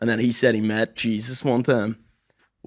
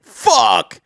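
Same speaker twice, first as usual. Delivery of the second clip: high, loud swear; retold shout; 11 semitones higher, 7 dB louder than usual. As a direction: blurt it out in dismay. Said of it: "We were like".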